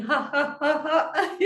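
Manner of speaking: high rhythmic ha ha; laughter yoga laughing. Shown as a demonstration. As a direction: chant ha ha while shaking. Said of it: "get the whole body shaking".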